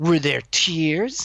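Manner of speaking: smug, arrogant, haughty, superior character voice. Showing how the remembered character line sounds: Aster voice. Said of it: "that's my Aster voice".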